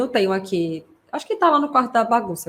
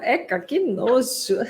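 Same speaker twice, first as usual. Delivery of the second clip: sing-song disgust; 2 semitones higher, much slower than usual. Retold or imitated. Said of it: "Talvez ela gostou da entonação".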